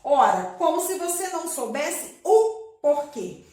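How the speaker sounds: a loud, exasperated comeback on "Ora"; hammed-up annoyed reply; indignant retort. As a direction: answer as if the question were absurd. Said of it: "E olha como que ela respondeu".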